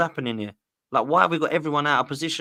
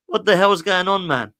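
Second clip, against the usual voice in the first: exasperated outburst; 6 semitones higher, 6 dB louder than usual. Real, not acted. Rant about the club.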